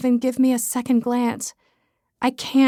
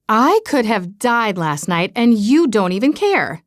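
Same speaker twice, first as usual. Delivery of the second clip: dramatic mother; 3 dB louder than usual. Retold or imitated. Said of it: "My mother's overly dramatic voice".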